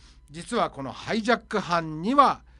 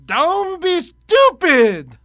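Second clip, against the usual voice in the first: much higher and louder indignant pilot; 8 semitones higher, 7 dB louder, much slower than usual. Acted. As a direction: refuse him with a shocked high cry. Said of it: "パイロット。".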